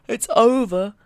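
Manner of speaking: high, loud cry of relief; re-enacted shout of completion; triumphant shout. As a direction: yell it like the finish line. Re-enacts finishing the recording.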